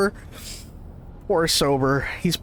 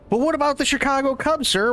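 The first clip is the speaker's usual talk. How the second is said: questioner; 8 semitones higher, faster than usual. Retold or imitated. Someone questions the pope.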